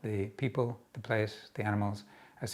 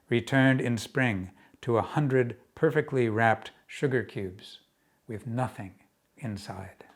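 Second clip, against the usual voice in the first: measured, paused verse delivery; projected poem reading that fades at the end; poetry reading; 5 dB louder than usual. Acted. Reads own poem aloud.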